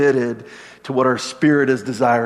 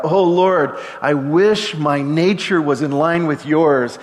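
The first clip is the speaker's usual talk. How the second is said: crying out; 2 semitones higher, 3 dB louder, slower than usual. Acted. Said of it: "here we cry out".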